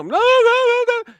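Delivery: high, loud repeated no; emphatic no. Real, not acted. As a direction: shout down the idea.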